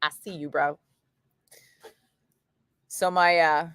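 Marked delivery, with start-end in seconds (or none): 0.0-0.8 low, soft knowing tone; cool nod. Retold or imitated. Thanking the rep for extra coupons, low and cool. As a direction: say it like a chill nod. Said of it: "And I was like".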